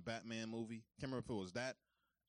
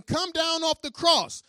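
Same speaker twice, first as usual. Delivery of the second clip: slow, loud taunt; mocking; 16 dB louder, slower than usual. Chief priests taunting Jesus, slow loud taunt. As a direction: jeer it at him. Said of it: "they're mocking him, saying".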